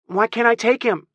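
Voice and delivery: put-on very high, whiny child; whining little boy. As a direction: whine in protest as a small boy. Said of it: "he whined".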